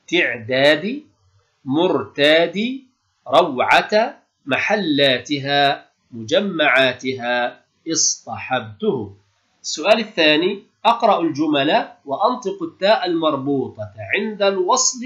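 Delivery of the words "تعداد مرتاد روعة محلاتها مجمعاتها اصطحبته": each word said slowly with every vowel of تعداد، مرتاد، روعة، محلاتها، مجمعاتها، اصطحبته clearly voiced; careful vowelled reading. Shown as a demonstration. Teacher reads the listed words to pupils, slow and carefully vowelled. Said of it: "مع مراعاة ضبط أحرف الكلمات الآتية".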